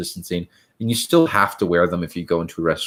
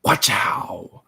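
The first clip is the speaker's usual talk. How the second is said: breathy whispered warning; 2 semitones lower than usual. Real, not acted. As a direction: whisper it under your breath. Unvoiced aside.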